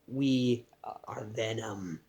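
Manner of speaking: low, slow monster growl; Venom voice. Retold or imitated. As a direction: drop deep and drag it out like a symbiote. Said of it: "Eddie and him say".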